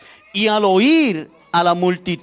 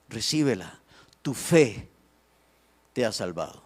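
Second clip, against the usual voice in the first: low, soft, measured words with pauses; gentle pronouncement; 9 semitones lower, 7 dB quieter than usual. Acted. Jesus tells the blind man he is healed, gentle pronouncement. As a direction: grant it quietly, letting the voice sink.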